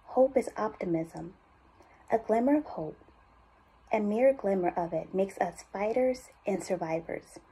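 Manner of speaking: measured voiceover with pauses between phrases; unhurried, hopeful cancer institute spot; heartfelt ad read. Acted. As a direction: read it as a sincere hospital commercial. Reads cancer institute ad copy.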